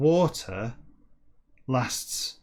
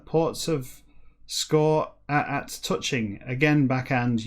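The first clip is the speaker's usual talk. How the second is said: slow, deliberate book reading; declaimed reading; 3 semitones higher, slower than usual. Acted. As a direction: declaim each word of jumbled text with weight. Reads jumbled book text aloud.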